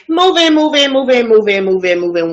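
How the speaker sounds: an FBI agent calling the team in, pushing hard; urgent calls to move in. Retold or imitated. FBI agents ordering the raid.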